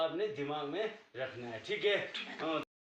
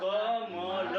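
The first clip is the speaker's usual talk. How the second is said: slow reading demo; 6 dB louder, much slower than usual. Shown as a demonstration. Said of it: "इसको कमल नहीं पढ़ेंगे".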